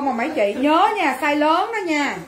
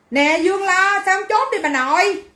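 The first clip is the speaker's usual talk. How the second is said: raised, higher-pitched nagging; higher, insistent telling-off; exasperated scolding; 5 semitones higher than usual. Real, not acted. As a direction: call the customer out, pestering. Calls out customer for bickering.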